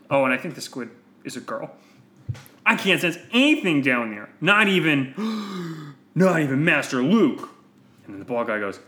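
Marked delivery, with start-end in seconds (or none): 2.6-7.5 worried lady Jedi. Acted. Lady Jedi senses no one alive.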